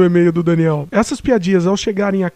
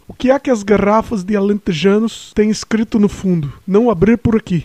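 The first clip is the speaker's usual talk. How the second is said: mild, barely-there Portuguese accent; attempted Portuguese accent. Shown as a demonstration. Host reading a listener's joke, tentative Portuguese accent. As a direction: lightly try on a Portuguese accent. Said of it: "Eu tô tentando falar com sotaque português".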